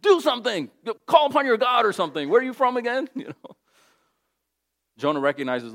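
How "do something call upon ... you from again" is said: much higher, louder frantic shouting; panicked sailors. Retold or imitated. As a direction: yell at a sleeping man in a storm. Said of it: "they wake him up".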